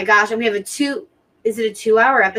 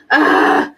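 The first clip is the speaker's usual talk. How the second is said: exasperated groan; 5 dB louder than usual. Real, not acted. Dreading the show's ending.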